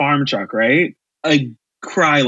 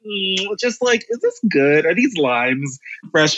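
a hint of an affected character voice; dainty mock shopper, only lightly put on; lightly attempted Moira voice; 4 semitones higher than usual. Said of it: "put in the Mora voice a little bit".

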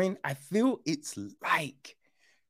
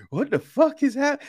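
high, loud disbelieving cry; shocked outburst; 11 semitones higher, 4 dB louder than usual. Retold or imitated. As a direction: yelp it in shock. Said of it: "I mean, like".

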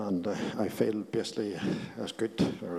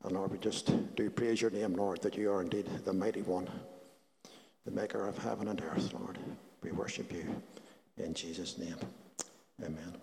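soft, reverent prayer voice; healing prayer; 3 dB quieter than usual. Acted. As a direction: pray it gently, fading to a hush.

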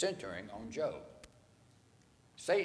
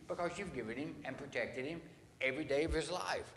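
higher, sneering devil's rant; mocking Satan rant; 6 semitones higher than usual. Preacher voicing Satan ranting at God. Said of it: "And Satan goes".

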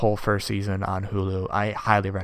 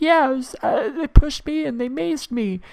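high, loud, tearful squeal; mock crying girl; 6 dB louder than usual. Mocking the pepper-sprayed girl, high tearful wail. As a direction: wail it like a sobbing teenager. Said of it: "she's like".

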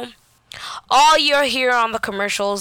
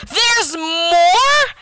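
higher, louder retold outburst of disbelief; dismayed disbelief; 5 semitones higher, 5 dB louder than usual. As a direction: blurt it out as an incredulous question. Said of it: "I said out loud".

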